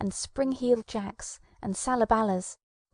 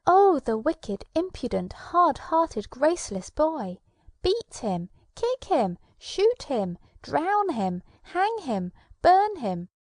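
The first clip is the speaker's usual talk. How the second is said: higher, louder furious cries; angry mob shouting; 6 semitones higher, 3 dB louder, slower than usual. Acted. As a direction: hurl the insults and threats at the boy.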